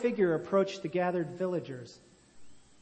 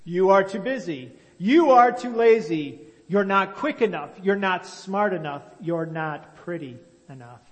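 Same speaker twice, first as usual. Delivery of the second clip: scolding taskmaster; 2 semitones higher, 8 dB louder than usual. A narrator's reading. Taskmaster finding fault with people.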